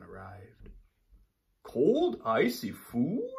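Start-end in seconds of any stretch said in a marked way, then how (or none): 1.6-3.3 high, loud astonished cry; surprised. Acted. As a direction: gasp at the cold food. Sun Bear reacts.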